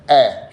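isolated open "a" for آ; fatha vowel. Shown as a demonstration. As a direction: show آ as a hamza with fatha. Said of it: "شوف بفتح".

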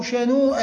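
شنوءة with long ū before the hamza; demonstrated word form. Shown as a demonstration. Teacher showing a variant of شنؤة, careful demonstration. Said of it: "هكذا".

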